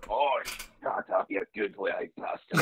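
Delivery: muffled, mouth pressed to the floor; muffled face down. Retold or imitated. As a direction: talk face down into the ground. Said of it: "a very muffled voice lying face down".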